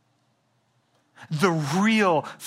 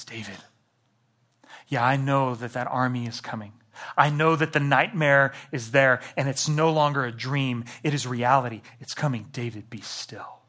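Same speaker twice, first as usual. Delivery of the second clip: tender God voice; 2 semitones lower than usual. Retold or imitated.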